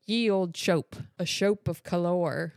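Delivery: "shope" with long O, "color" as cuh-lore; mock British spelling. Joking on British spellings, literal "shope" and "color". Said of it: "way too much Engl-, British English".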